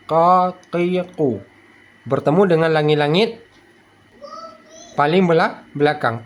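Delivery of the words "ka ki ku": "Ka, ki, ku" from the rearmost palate; back-of-tongue qaf. Shown as a demonstration. Teacher showing placement, "Ka, ki, ku" with tongue root raised.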